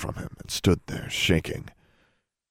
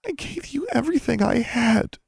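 moaned. A narrator's reading. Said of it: "she moaned in a smaller voice".

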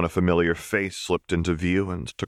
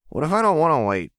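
mouthful of food; 11 semitones higher, 5 dB louder, faster than usual. Acted. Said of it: "through a mouthful of sauce".

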